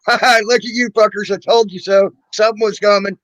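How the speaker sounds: mock told-you-so cackle from his mom; gloating mom. Host acting out his mom gloating at everyone, mock gloating. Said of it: "She's probably sitting there going".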